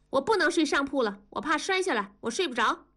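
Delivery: put-on high-pitched little girl protesting; loud child's protest. A narrator's reading. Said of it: "大声地说". (小女孩高声抗议)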